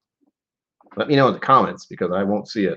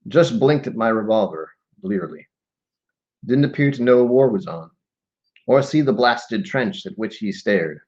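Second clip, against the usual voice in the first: measured poem recital with pauses between phrases; solemn verse delivery; poetry reading; 2 semitones higher than usual. Acted. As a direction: read the verse deliberately, phrase by phrase. Reads a war poem aloud.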